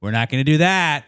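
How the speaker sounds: dad mode. Retold or imitated. Dad to a stranger raising his fist, firm scolding. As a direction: lay down the rule like a dad. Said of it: "I was in dad mode".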